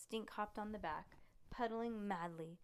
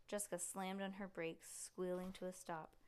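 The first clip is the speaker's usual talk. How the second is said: ordinary delivery, nothing marked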